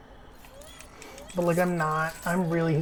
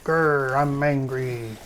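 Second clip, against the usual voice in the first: mock angry man; slower than usual. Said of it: "me when I'm a man and I'm angry".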